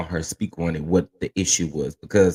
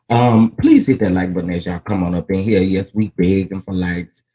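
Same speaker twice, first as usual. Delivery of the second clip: loud plea; 7 dB louder than usual. Real, not acted. Loud plea for likes to viewers.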